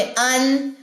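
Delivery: अन with open mouth, N held; sustained अन, clean closed ending; open-mouth demo. Shown as a demonstration. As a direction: open the mouth for अन and let the N hum. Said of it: "जबर के लिए मुंह खोले".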